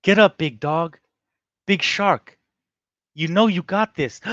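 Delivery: a hint of a cornerman cheering; Ray Jackson impression. Host retrying Ray Jackson's cheer, lightly voiced. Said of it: "I think I'll try".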